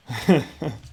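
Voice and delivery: quick amused chuckle; a light laugh at himself; short laugh. Real, not acted.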